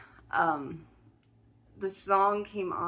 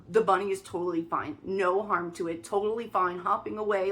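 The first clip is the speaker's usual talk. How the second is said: real excitement. Real, not acted. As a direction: let the thrill shake through it. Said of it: "I'm vibrating as I tell this story".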